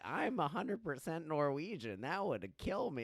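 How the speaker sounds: a hint of an insistent old customer; imitated old lady. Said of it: "old lady come in".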